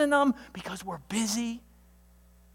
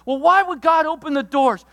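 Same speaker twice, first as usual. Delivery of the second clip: mock objecting listener; 7 semitones higher, 8 dB louder than usual.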